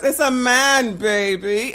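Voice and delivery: lightly voiced Austin Powers catchphrase; a hint of Austin Powers; Austin Powers impression. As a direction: quote the spy movie, teasing. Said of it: "Austin Powers".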